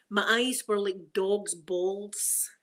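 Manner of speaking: slow Glasgow saying, eyes like dog's balls; Glasgow slang. Shown as a demonstration. Vlogger teaching her slang, broad Glasgow. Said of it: "we don't say dog's balls".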